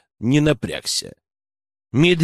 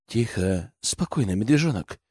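low menacing hiss; 5 semitones lower, 7 dB quieter than usual. A narrator's reading. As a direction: hiss it through the teeth. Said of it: "прошипел я".

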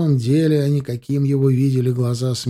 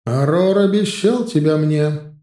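furious claim; 3 semitones higher, 4 dB louder than usual. Acted. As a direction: claim him angrily. Witch demanding her due. (гневное требование)

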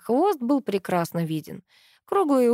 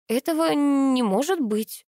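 unsure babble; 6 semitones higher, slower than usual. A narrator's reading. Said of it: "неуверенным голосом пролепетала я".

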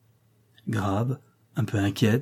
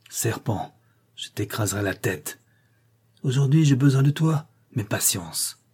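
growling threat. Acted. Humiliated man leaving swears revenge on the girl, growling. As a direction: mutter the threat through teeth. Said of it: "en grondant".

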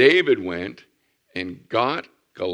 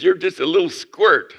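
mocking giant; 8 semitones higher, 6 dB louder than usual. Goliath mocks David.

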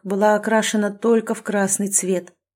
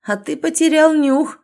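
taunting shout; 8 semitones higher, 5 dB louder than usual. Acted. Taunting across the fight.

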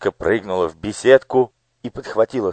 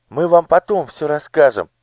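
much higher, eager pleading; urgent girl; 12 semitones higher, 3 dB louder than usual. Acted. Girl urging the coachman to hurry, high pleading. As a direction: urge him to hurry.

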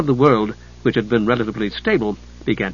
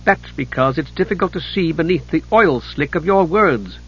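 quick sharp comeback, a bit higher; retorting; 4 semitones higher than usual. Acted. Chislev retorting to Hidjukel's complaint, tartly. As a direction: snap back at his slick words. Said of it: "Chislev retorted".

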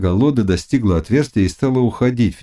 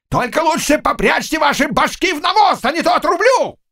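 thundering shout; 12 semitones higher than usual. A narrator's reading. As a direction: roar defiance down at the cossacks. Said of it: "громовым голосом Заглобы". (громовым голосом, с вызовом)

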